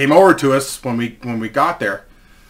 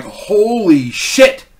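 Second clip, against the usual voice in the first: drawn-out, higher stunned exclamation; 5 semitones higher, much slower than usual. Retold or imitated. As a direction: stretch it out slowly in retold disbelief. Stunned reaction to shocking news.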